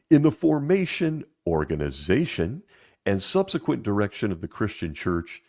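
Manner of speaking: measured, emphatic read-aloud with lifted openings; formal quote reading. Acted. Host quoting the governing body's book to viewers, formal reading. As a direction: read it out like an official pronouncement.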